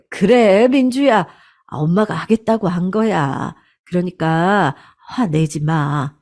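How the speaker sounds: calm her daughter down gently; soothing plea. Acted.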